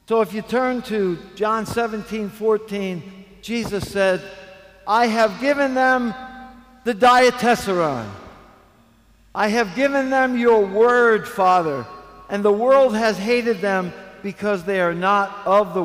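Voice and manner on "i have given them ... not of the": loud, declaimed scripture; preach. Real, not acted. Preacher reading Jesus' prayer to the congregation, forceful declamation. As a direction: proclaim the verse with force.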